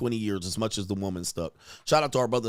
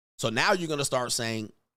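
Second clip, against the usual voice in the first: usual speaking voice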